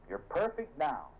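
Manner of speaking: slow, lifted declaration; emphatic preaching. Acted. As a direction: proclaim it to the room.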